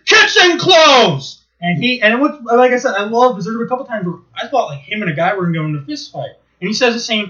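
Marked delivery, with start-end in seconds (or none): 0.1-1.4 slow, loud drawn-out declaration; mock chef shout. Chef shutting down the restaurant, slow loud mock shout. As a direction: call it out slowly like a verdict. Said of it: "he goes".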